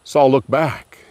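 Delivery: ordinary delivery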